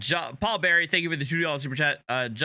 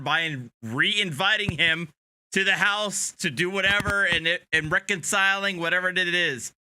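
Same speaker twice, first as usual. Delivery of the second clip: put-on higher, lightly Southern-accented exasperated cop; imitating a Southern-accented officer, pitched up; attempted Southern accent; 5 semitones higher than usual. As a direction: plead in a half-hearted Southern accent. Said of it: "great try to Southern accent".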